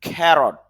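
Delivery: ক্যারট with a breathy kh and stress on the first syllable; ক্যারট said kherot, stressed start; aspirated carrot. Shown as a demonstration. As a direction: punch the kh of ক্যারট with a puff of air. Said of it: "খ তার উপরে stress mark".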